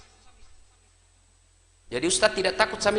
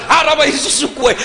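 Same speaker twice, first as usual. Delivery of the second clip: laughing mock scold; 3 semitones higher, 6 dB louder than usual. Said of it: "Langsung dia bilang".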